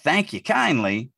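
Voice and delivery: slow, gracious "Thank you kindly"; a hint of an old-fashioned gentleman; lightly voiced genteel speaker. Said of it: "the same person also said".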